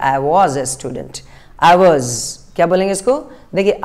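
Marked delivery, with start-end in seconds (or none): 0.1-1.2 slow model sentence. Shown as a demonstration. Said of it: "तो क्या बोलेंगे?".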